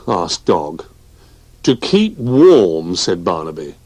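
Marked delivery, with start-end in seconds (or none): 1.6-2.9 little bear voice. Acted. Barnaby answers slowly.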